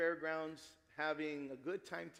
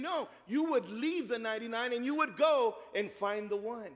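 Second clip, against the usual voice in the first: emphatic preaching; 5 semitones higher, 7 dB louder than usual. Acted. Preacher voicing Jesus' challenge.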